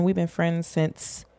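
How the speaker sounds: words stretched by a yawn. Real, not acted. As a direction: talk through a real yawn. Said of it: "excuse me, I yawned".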